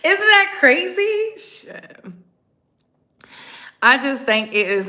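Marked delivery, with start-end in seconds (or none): 0.0-1.4 high, loud and slow exclaim; high, loud, slow, amazed. Real, not acted. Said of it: "repeats own line louder". 1.4-2.0 whispered aside under the breath; a whispered curse. Real, not acted. Whispered aside after exclaim.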